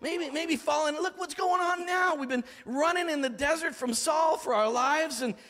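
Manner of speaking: mild mock complaint rising to let's kill David; mutinous soldiers. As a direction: voice the angry men turning on David. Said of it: "these guys are like".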